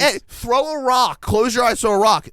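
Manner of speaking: loud, high, emphatic instructions; hammed-up "it's that easy" holler; exasperated advice.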